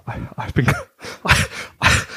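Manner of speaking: real laughter breaking up the words; too tickled to get the sentence out; helpless laughing. Real, not acted. Cohost realising the name mistake, helpless laughing.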